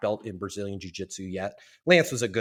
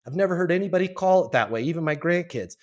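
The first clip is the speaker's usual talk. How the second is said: higher, louder incredulous boss; amused disbelief; 7 semitones higher, 4 dB louder than usual. Retold or imitated. Boss marvelling at the spaceship label, amused disbelief. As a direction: laugh it off in disbelief.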